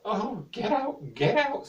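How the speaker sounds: high, loud, slow get out; king shouting get out. Acted. King chasing Sven out, high and loud. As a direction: drive him away with a cry. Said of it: "said the king".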